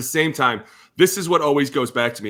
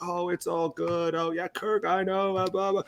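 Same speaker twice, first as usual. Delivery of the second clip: dismissive mock; 4 semitones higher, 6 dB quieter than usual. Mocking everyone brushing it off.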